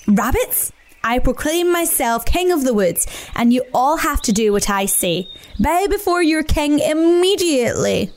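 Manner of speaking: lightly voiced pompous Badger, grand and bossy; pompous king. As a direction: proclaim it like a self-made king. Badger proclaims himself king.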